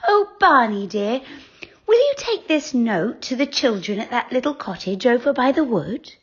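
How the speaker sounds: high, coaxing and sugary; sweetest voice. A narrator's reading. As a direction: sweet-talk the owl into a favour. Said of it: "in her sweetest voice".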